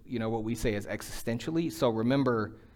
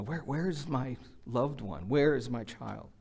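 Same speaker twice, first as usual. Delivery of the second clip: emotional panic; 5 dB quieter than usual. Retold or imitated. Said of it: "in this kind of emotional panic".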